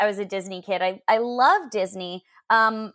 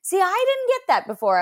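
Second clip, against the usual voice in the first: high mom voice; imitating mom; 12 semitones higher than usual. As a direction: quote mom in a raised voice. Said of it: "And she was like".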